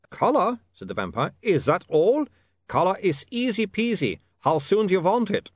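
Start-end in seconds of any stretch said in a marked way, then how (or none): 0.1-0.6 lightly voiced vampire, testy; a hint of a put-upon Uberwald vampire; vampire accent. A narrator's reading. Vampire Otto snapping at William's request, mild vampire accent. 1.4-5.5 lightly voiced vampire, testy; a hint of a put-upon Uberwald vampire; vampire accent. A narrator's reading. Vampire Otto snapping at William's request, mild vampire accent.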